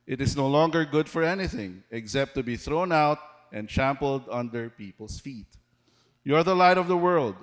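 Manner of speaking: measured, rising-and-falling Bible reading to the church; scripture reading. Acted. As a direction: read the verses like a preacher proclaiming them. Reads Matthew aloud to congregation.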